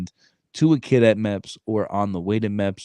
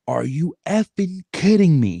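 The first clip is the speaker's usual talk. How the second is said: mild mock rant; 8 semitones higher than usual. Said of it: "I start flipping out on him".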